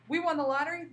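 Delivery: bright exclaiming demo; excited exclamation. Shown as a demonstration. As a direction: show the thrill of winning. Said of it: "that's a super exciting statement".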